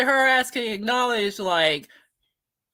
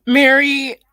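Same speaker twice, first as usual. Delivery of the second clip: calling out; 5 semitones higher, 9 dB louder than usual. Real, not acted. Calling out a commenter.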